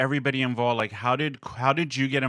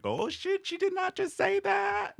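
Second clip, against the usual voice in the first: high, hushed gasp of disbelief; mock outrage, like gossip you can't believe; shocked disbelief; 7 dB quieter than usual. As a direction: she did NOT just say that. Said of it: "that's how it felt".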